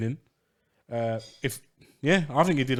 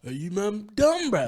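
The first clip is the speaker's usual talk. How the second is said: drawn-out, raised and louder mock confrontation; slow, louder mock tough guy; 6 semitones higher, 3 dB louder, slower than usual. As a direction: play a boxer squaring up, half joking. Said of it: "retold AJ reply".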